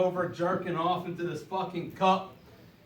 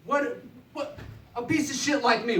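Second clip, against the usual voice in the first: higher, laughing mock audience voice; 6 semitones higher than usual. Comic voicing the crowd's question, higher and laughing. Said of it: "I know you guys are wondering".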